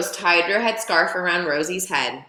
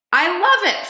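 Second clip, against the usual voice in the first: high, loud hooting laugh-line; hooting delight; 12 semitones higher, 4 dB louder than usual. A narrator's reading. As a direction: hoot it out with glee. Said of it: "Fred hooted".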